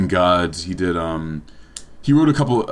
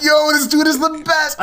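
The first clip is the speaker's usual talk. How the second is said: mock crying. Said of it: "I'd be crying".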